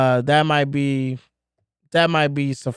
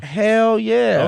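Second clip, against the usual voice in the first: excited; 6 semitones higher than usual. Real, not acted. Excited about Arch Manning.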